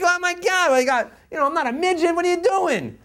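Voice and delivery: high, loud, laughing indignant yell; mock furious yell. Knocked onto the pavement, yelling at the stranger in mock fury. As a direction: snap at whoever knocked you down. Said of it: "You're furious".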